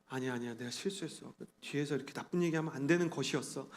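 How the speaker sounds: soft, low mock remorse; hushed retold self-correction; retold backpedalling. Regrets cursing along with others.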